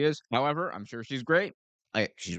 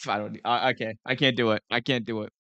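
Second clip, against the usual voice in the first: normal talking voice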